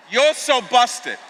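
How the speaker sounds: drawn-out playful call of busted; teasing shout. Shown as a demonstration. Pastor urging the crowd to shout it at a neighbour, playful. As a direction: stretch it slow and shout it out. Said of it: "Tell him".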